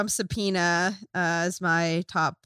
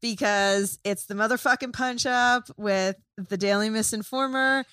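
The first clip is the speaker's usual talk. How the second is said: show intro; slower than usual. Acted.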